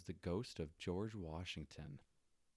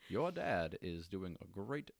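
a weak Barack Obama voice, more Morgan Freeman; bad Obama impression; 3 dB louder than usual. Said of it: "That's a really bad impre".

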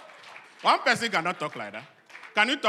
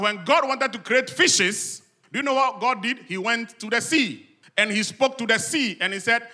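raised, emphatic preaching voice; 5 semitones higher, 6 dB louder than usual. Real, not acted. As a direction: preach it out with rising energy.

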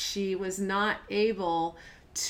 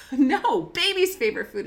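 imitating insistent daughter; 5 semitones higher, 6 dB louder than usual. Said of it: "And she'd say".

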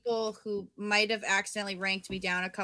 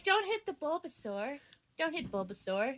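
pleading; 2 semitones higher, 8 dB quieter than usual. Retold or imitated. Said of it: "But then I'm like".

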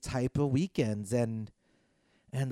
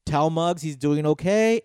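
louder, projected call-out to listeners; public appeal; 2 semitones higher, 7 dB louder than usual. Real, not acted. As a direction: address the whole audience, urging them to call in.

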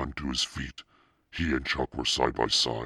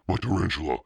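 loud, higher shout over a noisy crowd; boy yelling loud and high about his spider; 6 semitones higher, 4 dB louder, faster than usual. A narrator's reading. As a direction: yell it above the din. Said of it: "Steve shouted over the roar".

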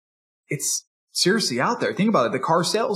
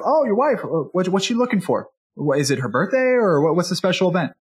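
upbeat salesman; 3 semitones higher than usual. Retold or imitated. Salesman voiced, rising energy.

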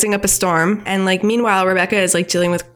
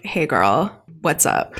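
smooth flirt; 4 semitones lower, slower than usual. Retold or imitated. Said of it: "he is like".

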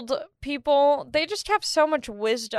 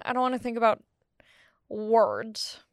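whisper. Real, not acted. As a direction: drop to a tired whisper. Weary aside about big words.

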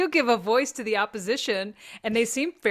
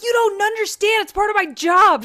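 mock protest; 10 semitones higher, 9 dB louder than usual. Retold argument with wife.

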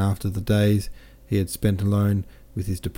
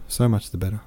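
so much the better repeated more gently, still rising; smiling captain, softer echo; 3 semitones higher than usual. Acted. Captain repeats himself to Pierre, a softer rising echo. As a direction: let the echo settle back down. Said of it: "he added, smiling".

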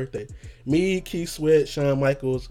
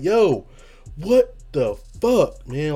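despairing yo; 2 semitones higher, 3 dB louder, much slower than usual. Retold or imitated. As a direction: drag it out in disbelief. Quoting his own despair.

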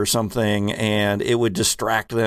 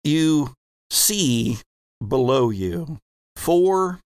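game master narration. Acted. GM sets the scene slowly.

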